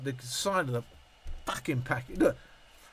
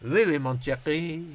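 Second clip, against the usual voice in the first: slower mock French accent; slow hint of a put-on French accent; slower French phrase. Shown as a demonstration. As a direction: drag out schoolboy French, half-hearted. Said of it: "all I can do is".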